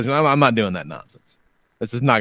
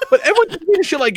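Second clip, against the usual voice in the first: usual speaking voice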